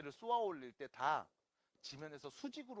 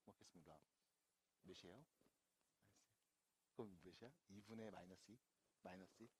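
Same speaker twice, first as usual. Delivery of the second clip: low, very soft muttering; sheepish grumble; 7 semitones lower, 12 dB quieter, faster than usual. Real, not acted. Teacher caught in a slip grumbles while fixing it, low sheepish mutter. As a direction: mumble a defensive complaint under your breath.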